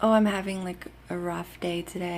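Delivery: ordinary talk, nothing marked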